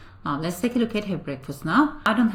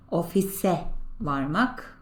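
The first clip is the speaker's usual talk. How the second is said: slow model pronunciation; slower than usual. Shown as a demonstration. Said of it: "Remember that".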